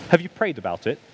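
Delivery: calm, measured friend's question; imitating a friend's unruffled enquiry. Friend gently asking the worked-up speaker, very calm. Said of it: "my friend very calmly went".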